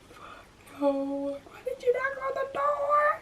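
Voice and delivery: hissed, breathless whisper; frantic whisper. Retold or imitated. Scolding her friend for knocking, in a frantic whisper. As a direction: whisper in alarm so she won't hear.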